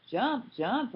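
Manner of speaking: high, loud panicked scream. A narrator's reading. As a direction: shout it as the train hits. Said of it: "Earl screamed".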